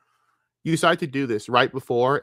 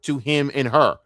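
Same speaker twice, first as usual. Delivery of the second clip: angry berating; 4 semitones higher than usual. Real, not acted. Yelling at the two streamers.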